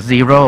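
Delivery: zero with a voiced, vibrating Z; throat-buzzed Z. Shown as a demonstration. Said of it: "เสียงมันต้องสั่นลงคอนะ".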